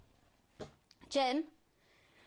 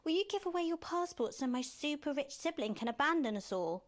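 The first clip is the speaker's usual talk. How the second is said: higher, whiny mock of Alex asking; mock wimpy Alex; 6 semitones higher than usual. Mocking Alex's pushover voice to his face, higher whine. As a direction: mimic him as a spineless pushover. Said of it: "you're acting like a bit of a wimp".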